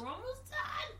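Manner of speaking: squealed very high with delight; thrilled exclamation, pitch shooting up; excited. Real, not acted. Excited at season count.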